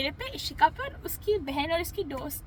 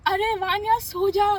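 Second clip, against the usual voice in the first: nagging friend; 6 dB louder than usual. Retold or imitated. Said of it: "ये जो".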